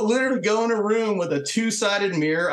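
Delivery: usual speaking voice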